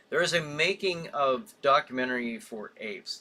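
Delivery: ordinary talk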